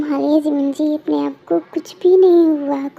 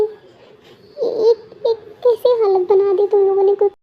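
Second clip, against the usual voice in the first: panicked sister; 4 semitones higher than usual. Acted. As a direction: beg her to open her eyes. Sister finds Kooki unconscious. (घबराई हुई बहन, हल्की ऊँची आवाज़ में)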